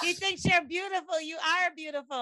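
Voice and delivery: high-pitched, mocking mimicry; imitating the friend. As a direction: parrot her compliment, voice lifted high. Voicing the friend's flattering reply.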